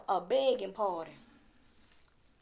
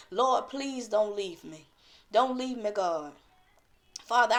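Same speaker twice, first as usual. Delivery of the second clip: heartfelt appeal to the Father; humble pleading prayer; 4 dB louder than usual. Shown as a demonstration. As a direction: plead with God as a model prayer. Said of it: "you got to go to God like that".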